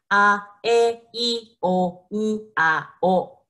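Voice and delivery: A, e, i, o, u, a, o, each crisp and separate; vowel warm-up drill. Shown as a demonstration. Teacher drills the vowel warm-up for her students. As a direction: work the lips through each vowel. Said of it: "Can you say".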